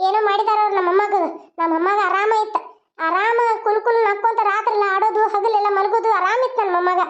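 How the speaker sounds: lightly voiced old grandmother, pleading and hurt; a hint of a wounded granny begging for answers; grieving grandmother. Grandmother begging silent Sharada to speak, pleading.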